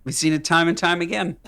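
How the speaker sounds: mock pundit, laughing; hammed-up political commentator addressing folks; lightly voiced cable pundit opening; pundit impression. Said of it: "commentary from J D Vance's best bud".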